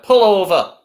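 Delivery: loud Scouse cop saying it; Scouse accent. Retold or imitated. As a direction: bark it like a Merseyside policeman. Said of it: "I can't do a Scouse accent".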